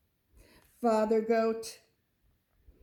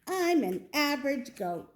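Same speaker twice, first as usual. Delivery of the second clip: The speaker's voice; 6 semitones higher than usual. Acted. Goat character voiced in story.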